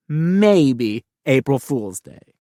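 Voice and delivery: slow, drawn-out teasing aside; sly punchline. Acted. Kid listing holidays, landing the sly April Fools joke. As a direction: let the joke land slowly.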